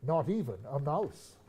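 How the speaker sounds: slow storytelling reading; poem reading. Acted. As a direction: read it like a bedtime poem. Reads the poem aloud.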